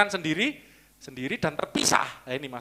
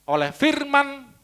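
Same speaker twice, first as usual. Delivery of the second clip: very slow, high stress on Oleh firman; drawn-out emphasis; 11 semitones higher, 5 dB louder, much slower than usual. Acted. Preacher stressing the verse for the congregation, slow and high.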